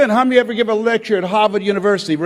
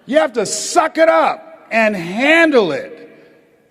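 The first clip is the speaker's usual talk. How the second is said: forceful shout; much slower than usual. Acted. Preacher emphatic point.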